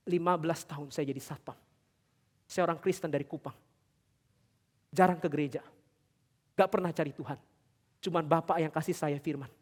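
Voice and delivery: subdued retelling of a tearful confession; a touch of tears, slightly hushed; imitating tearful man. Security guard confessing to the pastor, understated tearful voice. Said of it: "Dia nangis".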